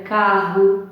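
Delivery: "Carro" ending in an U sound; "Carro" with its last O pronounced U; final O as U. Shown as a demonstration. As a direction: say "Carro" as CA-rru. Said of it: "mas tem som U".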